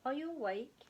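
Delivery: put-on high, loud child's call to wake his dad; a little owl calls out to wake his sleeping father; calling loudly. A narrator's reading. Young owlet loudly calling his father. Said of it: "he said loudly".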